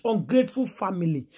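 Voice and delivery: usual speaking voice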